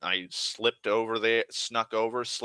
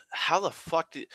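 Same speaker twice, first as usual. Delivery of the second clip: high-pitched mock bafflement; baffled disbelief; 9 semitones higher than usual. Game master reacting to the cat character, baffled. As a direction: retell it as a flabbergasted game master.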